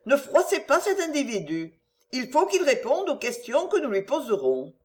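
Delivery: a gentle noblewoman begging him not to worry; Marguerite's voice. Acted.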